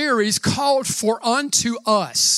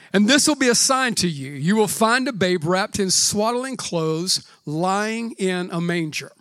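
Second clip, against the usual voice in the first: scripture reading. Acted. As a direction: read the passage reverently. Reads the Christmas scripture aloud.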